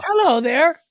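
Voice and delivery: high squeaky toy voice, far from his own; creepy Furby voice. Retold or imitated. Host mimicking a talking Furby toy, high and squeaky. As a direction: play the Furby greeting like a creepy child toy. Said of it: "English accent voice thing".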